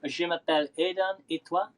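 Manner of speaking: learner's attempt at a French accent. Shown as a demonstration. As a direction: introduce yourself in practised beginner's French accent. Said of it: "How's my accent?".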